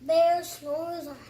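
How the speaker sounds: proud loud title call; loud announcing. Real, not acted. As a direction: announce it loudly. Child announces title loudly.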